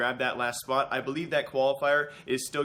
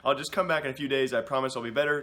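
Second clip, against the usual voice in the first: sick voice. Real, not acted. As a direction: talk through a cold, voice gone husky. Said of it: "my voice almost sounds almost manly".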